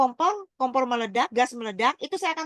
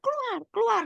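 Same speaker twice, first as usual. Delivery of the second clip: retold urgent order; 10 semitones higher than usual. Wife quotes husband urging escape from fire, retold urgent order. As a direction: imitate someone urging everyone out. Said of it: "Suami saya bilang".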